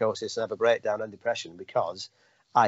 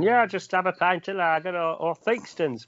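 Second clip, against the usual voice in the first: higher put-on bloke ordering at the bar; silly voice; 8 semitones higher than usual. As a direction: play up a goofy pub voice for laughs. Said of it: "don't know why that did that voice".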